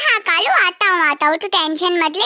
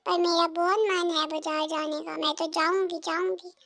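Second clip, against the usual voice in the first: quiet grumbling; 9 dB quieter than usual. Acted. पत्नी खुद से धीमे बुदबुदाती है.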